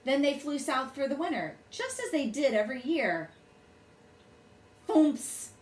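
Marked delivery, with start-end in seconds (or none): 4.9-5.5 bird voice. A narrator's reading. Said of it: "said the Fugle bird".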